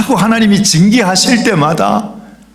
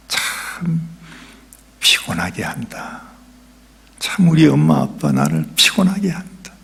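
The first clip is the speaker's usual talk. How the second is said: put-on sulky child; 5 dB quieter than usual. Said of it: "그렇게 생각하는 거예요".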